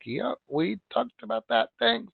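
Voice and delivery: bored client. Retold or imitated. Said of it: "Client's like".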